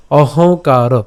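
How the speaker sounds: অহংকার said clearly; careful pronunciation. Shown as a demonstration. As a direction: sound out অহংকার. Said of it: "আমি আবার বলছি".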